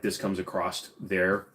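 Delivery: "across" pronounced "acrosst" mid-phrase. Shown as a demonstration. Streamer quoting his old habit, "across" with added T. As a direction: slip a T onto "across". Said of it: "with a T".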